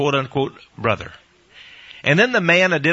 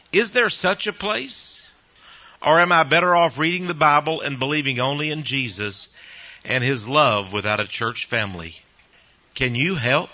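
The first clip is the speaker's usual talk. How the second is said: reading a letter aloud. Acted. Host reads a sister's letter to listeners, measured read-aloud.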